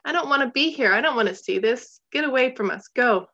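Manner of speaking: mild mock scream. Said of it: "he screamed it as loud as he could".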